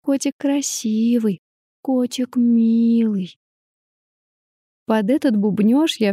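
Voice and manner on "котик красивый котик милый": put-on little girl cooing. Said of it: "приговаривала".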